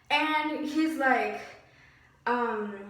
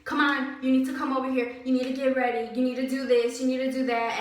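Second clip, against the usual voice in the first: mock yelling; 3 dB louder, faster than usual. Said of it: "this dude is yelling at me".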